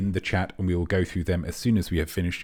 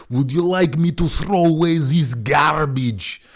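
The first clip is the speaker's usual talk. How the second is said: higher, louder put-on mover voice; 8 semitones higher, 7 dB louder than usual. Mover asking if he should toss the rubbish, in a put-on voice. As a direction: play the mover asking to bin it. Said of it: "the mover will pick up something like this and say".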